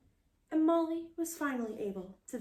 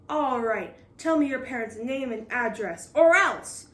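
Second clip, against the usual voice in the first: growling threat; 2 semitones higher, 6 dB louder than usual. Acted. Captain threatening Molly, growling. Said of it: "growled Captain Firebeard".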